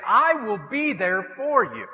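slow, weighted promise; earnest pledge. Acted. Men pledging to their friends, earnest pledge. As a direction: say it slowly as a vow.

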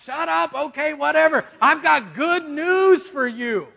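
exasperated heavenly messenger, played for laughs; impatient angel. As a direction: cut off the babbling, then announce. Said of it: "And the angel's like".

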